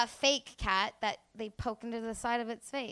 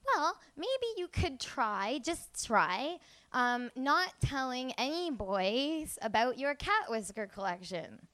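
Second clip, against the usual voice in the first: imitating mom; 6 dB quieter, slower than usual. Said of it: "she says this".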